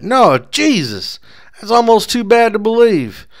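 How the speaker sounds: high, loud cry of disbelief, slow at first; anguished outburst. A narrator's reading. Bar patron refusing to believe the Derby threat, high anguished cry. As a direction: wail it as if the news hurts. Man shocked by bad news.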